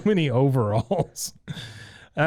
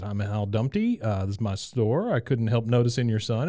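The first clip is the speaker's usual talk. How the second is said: Hal Dumpty. Retold or imitated.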